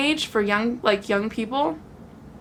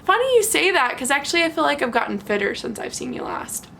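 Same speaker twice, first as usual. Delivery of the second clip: sassy retort; 3 semitones higher than usual. Retold or imitated. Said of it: "I looked at him and I said".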